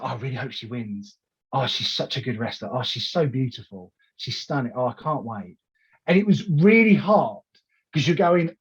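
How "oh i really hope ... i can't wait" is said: softer, lightly voiced child gushing; gently imitated little girl; a hint of an excited niece. Niece in the car, lightly voiced gushing. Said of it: "she's like".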